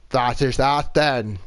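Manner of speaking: low, badly faked Irish accent; poor Irish accent. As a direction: try a rough Irish lilt, low-pitched. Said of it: "that extremely poor Irish accent".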